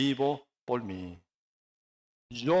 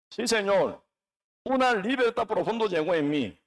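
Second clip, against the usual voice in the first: high-pitched, insistent preaching; fervent preaching; 5 semitones higher than usual. Real, not acted. Preacher declaring his freedom to the congregation, fervent and high. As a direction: preach it with rising conviction.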